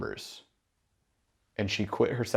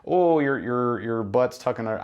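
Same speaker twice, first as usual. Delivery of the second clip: put-on folksy Canadian-accented fault-finding. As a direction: play a critical trainer with a hint of Canadian. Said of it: "like, a Canadian accent".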